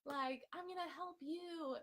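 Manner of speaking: mock Smeagol cheer, way up in pitch; cheery Smeagol. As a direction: chirp it like eager happy Smeagol. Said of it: "I'm all Smeagol".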